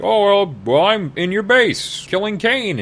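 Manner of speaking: high, stammering villain comeback; a hammed-up high witchy gloat; flustered Magda. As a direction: recover with a taunt. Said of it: "she's like".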